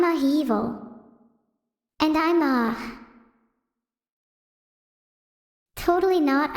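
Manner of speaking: lightly voiced edgy twin sister, hesitant; a hint of Evil's put-on edginess, with halting ums; Evil impression. Imitating her sister Evil for chat, lightly edgy and hesitant. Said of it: "let me do an impression of her".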